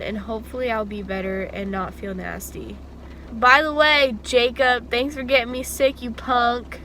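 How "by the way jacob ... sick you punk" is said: playful scolding. Real, not acted. Playful blame at friend.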